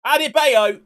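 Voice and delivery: loud, high excited yell of the name; goal shout. Real, not acted. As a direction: roar the scorer's name as the goal goes in. Goal celebration shout in game.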